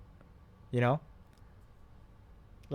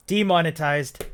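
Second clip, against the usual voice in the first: announcer declaration; 3 semitones higher, 6 dB louder than usual. Acted. Joking reaction to swearing.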